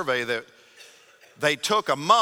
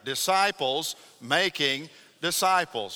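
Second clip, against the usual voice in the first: congregation recital. Shown as a demonstration. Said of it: "Would you say that out loud together with me?".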